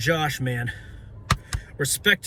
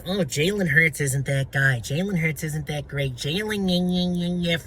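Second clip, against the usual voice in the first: mocking a critic. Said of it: "tell me".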